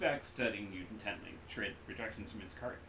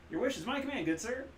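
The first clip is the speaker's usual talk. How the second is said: high, loud grand genie voice; bow and grant the wish; 6 dB louder than usual. Acted. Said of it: "genie-like vendor reply".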